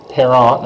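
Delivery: "Parent" said the French way, final T and S silent. Shown as a demonstration. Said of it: "not parents".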